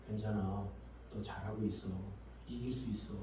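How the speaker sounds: low, soft, comforting voice; gentle encouragement. Acted. Someone consoling a discouraged person, soft encouragement. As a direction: reassure them tenderly and quietly. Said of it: "이런 식으로 응원해주면 그것이 위로가 되죠".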